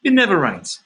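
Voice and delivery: put-on Portuguese accent slipping into Italian; badly faked Portuguese accent; attempted Portuguese accent. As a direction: imitate a Portuguese local, sounding rather Italian. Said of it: "Is that Italian?".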